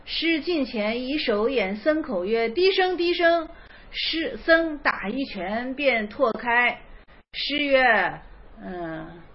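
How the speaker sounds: slow, measured reading of classical text; koan reading. Acted. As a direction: read the old koan slowly and evenly. Reads a Zen koan aloud. (缓慢诵读公案)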